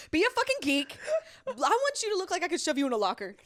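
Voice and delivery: laughing through her friend's words; laughing mock demand. Teasing her friend's dating rules, laughing. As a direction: quote her while cracking up. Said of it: "She's like".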